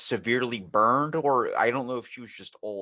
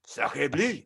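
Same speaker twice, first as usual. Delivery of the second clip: put-on French accent; 4 semitones higher than usual. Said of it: "French accent".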